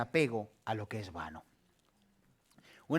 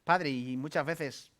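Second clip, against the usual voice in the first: prayer. Acted. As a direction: pray to the Father, unhurried. Closing prayer.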